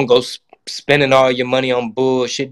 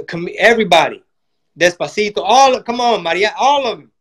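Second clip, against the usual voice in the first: hammed-up higher pitched mock pitch; mock campaign strategist; 4 semitones higher than usual. Comic mocking Democratic strategists hyping up the Latino pitch. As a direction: lampoon the party's pandering plan.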